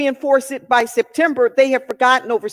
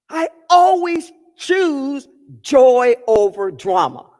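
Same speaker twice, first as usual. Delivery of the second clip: slow, stress on always; slow emphatic repeat. Shown as a demonstration. Speaker repeats the affirmation to listeners, slow and weighty. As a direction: lean into always, slowly. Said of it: "It says".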